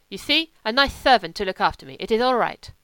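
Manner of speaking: a hint of a lazy wolfish German drifter; German legionnaire. German voiced in the story.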